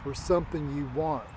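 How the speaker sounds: inner voice. Retold or imitated. Inner voice to exhausted runner, measured and solemn. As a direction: let a hint of solemn inner voice speak. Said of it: "There was something inside me that said".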